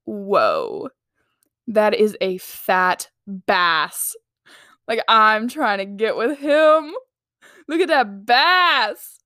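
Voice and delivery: slow, lightly mocking awe; a hint of a girl impressed by a bass. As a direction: pretend to gush over a fish. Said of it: "and be like".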